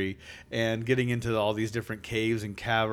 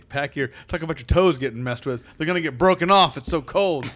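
excited exaggeration; 3 semitones higher, 6 dB louder than usual. Real, not acted. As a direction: make the cold sound dramatic. Hamming up the cold.

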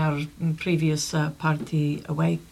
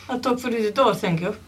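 laughing; 5 semitones higher, 3 dB louder than usual. Real, not acted. Laughing reply.

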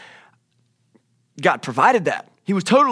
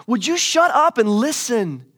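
high, loud and drawn out; slow, hammered-out mock yell for attention; acted outburst at the end of patience; exasperated shout; 8 semitones higher, 5 dB louder, slower than usual. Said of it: "He's like".

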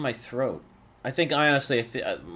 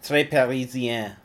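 French accent; slower than usual. Shown as a demonstration.

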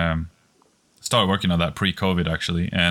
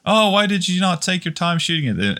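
put-on high, heavy French accent; 12 semitones higher than usual. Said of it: "obviously with a heavy French accent".

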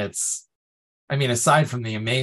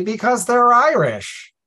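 high, loud playful declaration; proud retort; 10 semitones higher, 8 dB louder, slower than usual. Retold or imitated. Answering the puzzled twenty-somethings, high loud proud reply. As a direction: announce it proudly like it explains everything. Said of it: "I was able to say".

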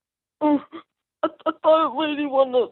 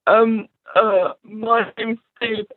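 teary; slower than usual. Acted. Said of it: "you might not want to cry".

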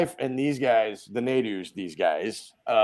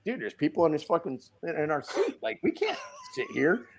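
higher, softer voiced protest; mock dismay; 5 semitones higher, 6 dB quieter than usual. Friend finding people in his seat, mock-dismayed protest. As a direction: imitate a friend balking, pitch climbing. Tom objecting to strangers at table.

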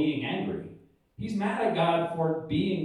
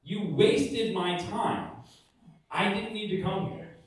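high petulant complaint; 5 semitones higher than usual. Retold or imitated. Jonah complaining to God.

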